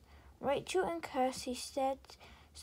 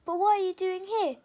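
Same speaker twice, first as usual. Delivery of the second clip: high, louder surprised question; 6 semitones higher, 8 dB louder, faster than usual. A narrator's reading. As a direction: ask in sudden surprise. Fairy surprised to see friend.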